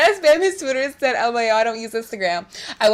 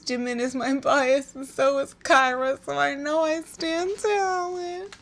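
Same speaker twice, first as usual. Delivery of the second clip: showy comment reading; 3 semitones higher, 5 dB quieter, slower than usual. Pretend. Reading comment in showy slow style.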